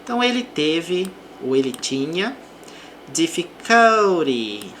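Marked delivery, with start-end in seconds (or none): 3.1-4.7 "difficulty" slowed, weight on DIF; slow teaching stress on "difficulty". Shown as a demonstration. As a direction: hit DIF in "difficulty" for the class. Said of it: "aqui a sílaba forte".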